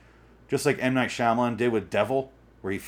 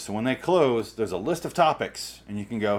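ordinary talk

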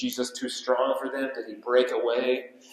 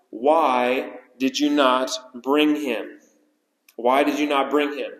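mock furious rebuke. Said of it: "They're furious with these officers".

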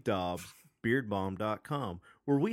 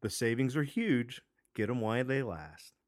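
upbeat infomercial pitch. Acted. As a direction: sell it like a TV ad. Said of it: "Is that your infomercial voice".

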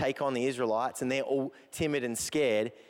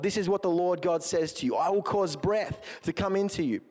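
emphatic, declaimed Bible reading; scripture reading; 3 semitones higher than usual. Acted. Preacher reading Ezekiel's dry bones vision, declaiming. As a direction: read the prophecy out to the congregation with conviction. Reads Ezekiel passage aloud to congregation.

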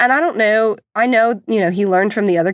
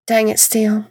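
daughter imitating mom. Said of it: "she continues to imitate me".

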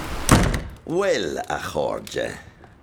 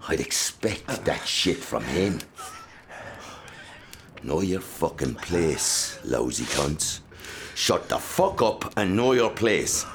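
slow menacing threat; slower than usual. Acted. Father threatening sons.

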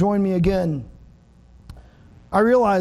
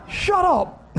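much higher, playful shut up; hammed-up playful annoyance; mock annoyed; 9 semitones higher than usual. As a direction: brush it off in fake irritation.

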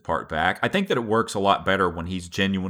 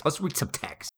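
silly high voice; 8 semitones higher, 7 dB quieter than usual. Pretend. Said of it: "Are we just gonna read some text?".

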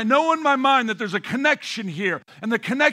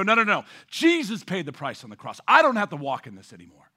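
defiant declaration; 3 semitones lower than usual. Pretend. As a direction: stand tall and push it out. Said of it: "I stand tall and go".

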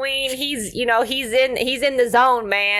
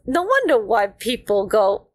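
shocked "what the hell". Retold or imitated. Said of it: "And she goes".

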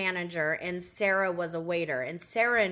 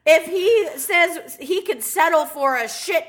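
loud, laughing, sassy reply; loud sassy retort to her friend about the toilet; 5 semitones higher, 6 dB louder than usual. Retold or imitated. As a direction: scold her friend with big laughing sass. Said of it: "I go".

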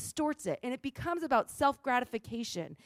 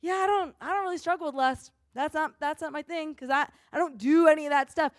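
dismissive; 4 semitones higher than usual. Retold or imitated. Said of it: "sitting here going".

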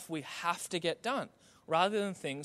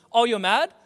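dad's threat; 6 dB louder, faster than usual. Retold or imitated. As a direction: throw out a mock fatherly threat. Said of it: "my dad's favorite line was".

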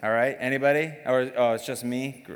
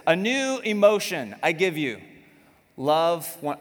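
a touch louder, solemn fake quote; mock scripture reading; 4 semitones higher, 5 dB louder than usual. Pastor teasing the congregation with a fake verse, mock solemn. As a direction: read it like scripture, tongue in cheek. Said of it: "I lied to you again".

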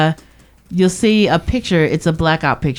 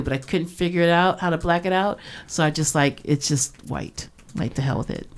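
quiet; 7 dB quieter than usual. Real, not acted. Trailing off dismissively.

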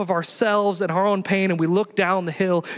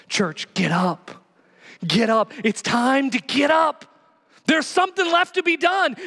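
rising rally cry; 7 semitones higher than usual. Acted. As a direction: rouse the church to its feet. Preacher rallying congregation.

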